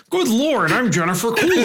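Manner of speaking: high, hammed-up celebrity impression; Jennifer Coolidge. Podcaster retrying a fluke impression on request, hammed-up celebrity voice. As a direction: push the pitch up in a showy put-on voice. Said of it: "it's just like I'll sound like anybody".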